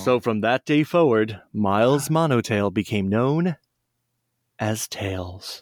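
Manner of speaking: slow fading final narration line; storybook ending. Acted.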